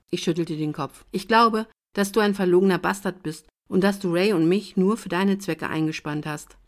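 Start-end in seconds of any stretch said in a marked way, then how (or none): 1.1-6.6 furious accusation. Acted. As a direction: let the anger burst out at him. Ich war so sauer.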